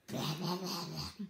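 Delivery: imitating mindless ranting; blah-blah parody of an annoying rant; mock ranting. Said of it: "annoying people just going, like, ranting".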